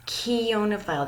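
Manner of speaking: "Keonophile" with a hard K at the start; pronunciation model. Shown as a demonstration. Teacher introducing the word of the day, "Keonophile" carefully sounded out with a K. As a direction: say "Keonophile" as kee-OH-nuh-file. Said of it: "That C H makes a K sound".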